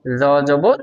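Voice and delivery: জ জবর with a light, thin z; thin za sound. Shown as a demonstration. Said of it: "পাতলা আওয়াজের আরেকটি জ".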